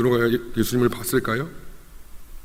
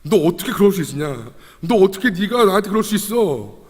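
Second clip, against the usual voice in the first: hurt rebuke, rising higher at the end; mock scolding; 6 semitones higher than usual. Jesus imagined scolding Peter for betraying him, scolding. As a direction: act out a mild telling-off. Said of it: "혼내시면".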